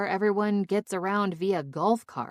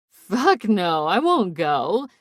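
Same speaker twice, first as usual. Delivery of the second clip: loud, emphatic refusal; shout; 7 dB louder, slower than usual. A narrator's reading. Drunk friend refusing to try out again, shouted. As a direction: shout it out, stretching the last words. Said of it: "I shout and then giggle".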